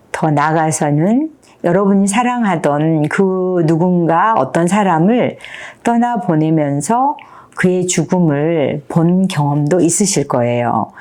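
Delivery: ordinary talk, nothing marked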